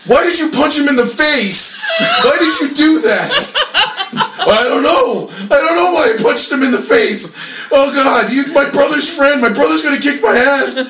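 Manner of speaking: put-on high, whining panicked drunk, half laughing; mock the weepy roid guy in a high wail; whiny drunk guy. Bouncer retells crying drunk steroid guy.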